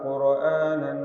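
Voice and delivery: slow, melodic chanted Arabic recitation; Quran recitation. Acted. Teacher recites Surah Zukhruf before explaining it, slow melodic chant. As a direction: draw each verse out in a sung tajweed chant.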